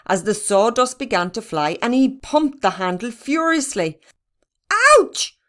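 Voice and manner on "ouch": high, loud yelp of pain; sudden sharp "ow" cry, high and loud. A narrator's reading. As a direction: cry out as if just hurt. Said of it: "cried Barney".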